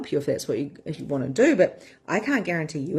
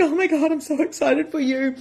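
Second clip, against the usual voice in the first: excited cheering; 7 semitones higher than usual. Retold or imitated. Coach retelling her excited reply to a client, cheering. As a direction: gush over a client's brave step. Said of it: "I'm like".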